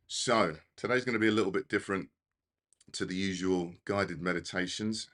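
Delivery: breathless and hurried; rushing the words, short of breath. Real, not acted. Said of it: "I'm literally out of breath".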